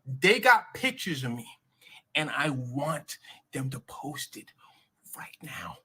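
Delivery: loud start, slowing and dropping to hushed; dramatic declaration. Acted. Jeff's dramatic announcement to world.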